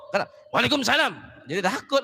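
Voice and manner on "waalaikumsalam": firm, curt phone greeting. Shown as a demonstration. Preacher demonstrates to the women a firm, cold reply. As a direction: answer a strange man coldly. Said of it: "Jadi harus keras".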